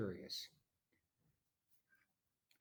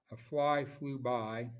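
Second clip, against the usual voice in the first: slow before pause; 3 dB louder, slower than usual. Shown as a demonstration. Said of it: "then a little pause".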